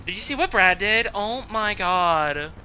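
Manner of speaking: lightly hammed gossiping girl voice; a hint of a ditzy teen girl; valley girl impression. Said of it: "That is my impression of a, of the average white girl".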